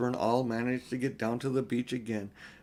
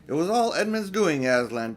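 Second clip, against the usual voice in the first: excited report; 4 semitones higher, 4 dB louder than usual. Acted. Peter reports the battle to Aslan.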